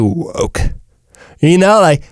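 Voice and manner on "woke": put-on British "woke"; mock British accent. Shown as a demonstration. Host testing the word on listeners, mock British accent. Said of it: "you can't say woke in a British accent".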